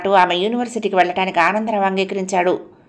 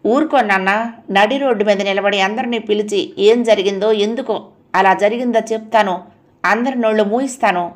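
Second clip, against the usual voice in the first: fuming. Acted. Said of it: "Archana మండిపడుతూ".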